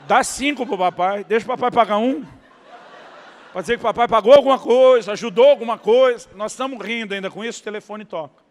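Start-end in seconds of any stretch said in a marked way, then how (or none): 0.1-2.2 laughing to son. Retold or imitated. Father laughing as he bargains with his son. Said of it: "Eu falei, "Filho". 3.5-6.3 much louder, laughing through the words; laughing loudly. Real, not acted. Preacher laughing with the church about paying something.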